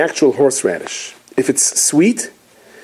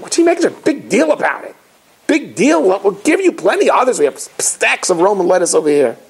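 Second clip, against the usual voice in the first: mocking onlookers; 4 semitones higher than usual. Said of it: "everyone's like".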